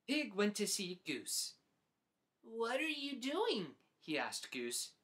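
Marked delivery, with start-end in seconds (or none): 2.5-3.8 higher, curious little pig; eager pig asking again; Pig's voice. Acted. Pig asks Goose what she's doing, eager.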